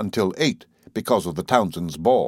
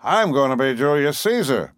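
higher, emphatic declaration; announcing; 5 semitones higher than usual. A narrator's reading. Perry after a moment's concentration, proudly announcing. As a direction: announce it as a grand decision. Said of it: "he announced".

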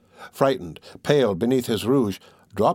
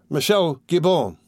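high, slow shriek of a name; 5 semitones higher than usual. A narrator's reading. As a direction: call him sharply to wake him. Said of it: "shrieked almost in his face".

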